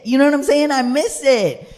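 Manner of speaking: loud, high comic wail of longing; mock lament. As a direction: wail it out, hammed-up heartbreak. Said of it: "I get a little sad and I shed a tear".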